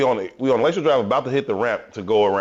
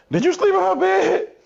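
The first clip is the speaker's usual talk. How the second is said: much higher mock girlfriend voice, incredulous; shrill girlfriend question; 3 dB louder than usual. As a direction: ask it in a squeaky jealous falsetto.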